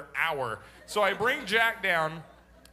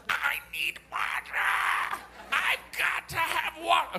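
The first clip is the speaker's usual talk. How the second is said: a son desperate to delay his spanking; whiny child; 8 semitones higher, slower than usual. Retold or imitated. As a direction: beg like a stalling little boy. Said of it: "Let's deal with this".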